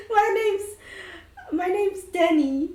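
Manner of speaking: high, slow, loud ghost intro. Acted. Ghost Denny introducing himself to the party, high and slow. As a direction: chirp out the name slowly.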